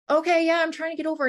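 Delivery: high, strained voice, pleading to be believed; panicked retold reply. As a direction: sound caught between lanes and panicking.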